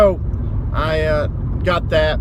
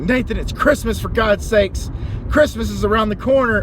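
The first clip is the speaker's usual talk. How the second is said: mock scolding; 6 semitones higher than usual. Scolding the absent seller.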